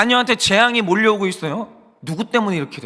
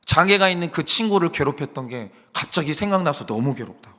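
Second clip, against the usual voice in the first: retold confession; 3 semitones lower than usual. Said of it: "죄 고백을 했어요".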